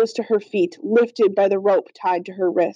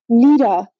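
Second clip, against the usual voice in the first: louder, startled glad cry; joyful surprise; 2 semitones higher, 6 dB louder than usual. A narrator's reading. Big sister sees her dead little sister, joyfully surprised. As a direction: call the name with sudden joy.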